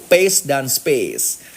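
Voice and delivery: very slow, each word drawn out; slow demo. Shown as a demonstration. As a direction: show the slow pace deliberately. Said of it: "teknik namanya slow". (pelan sekali, kata demi kata)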